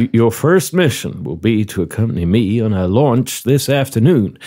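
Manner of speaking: put-on courteous Southern-accented interviewer; genial southern commander. Commander offers the applicant a seat, genial southern role. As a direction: play a hospitable commander running an interview. Commander gives first mission.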